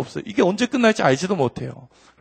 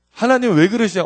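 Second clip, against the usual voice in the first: mock complaint; 5 semitones higher, 4 dB louder than usual. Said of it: "엄마한테 따져서".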